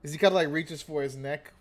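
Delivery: ordinary delivery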